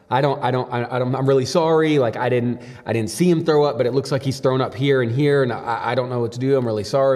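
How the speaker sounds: imitated flustered, stammering apology; mildly freaking out. House sitter apologizing to the dog's owners, mildly freaking out. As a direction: lightly voice a friend tripping over apologies. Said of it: "he's kinda freaking out".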